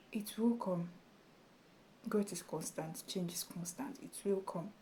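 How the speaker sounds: soft, near-whispered promise; hushed reassurance. Real, not acted. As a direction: tell them gently it will come. Reassuring about growth.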